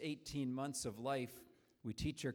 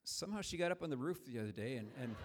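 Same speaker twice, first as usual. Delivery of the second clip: punchline with a laugh; 3 semitones higher than usual. Retold or imitated.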